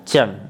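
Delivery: चंग said short, with a nasal ng ending; modelling the sound. Shown as a demonstration. Teacher showing students how चंग sounds, said short. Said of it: "तो चा का उच्चारण कैसे हो गया".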